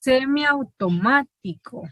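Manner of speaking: semiautomático spelled out slowly, every syllable clear; careful slow reading. Shown as a demonstration. Teacher slowly transcribing Josué's word for the class. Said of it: "haciendo la transcripción de la palabra semiautomático".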